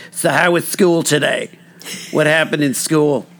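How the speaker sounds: mildly put-on New York grandma asking about school; nanny voice. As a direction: ask about school like a chirpy old nanny. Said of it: "he's doing the nanny voice".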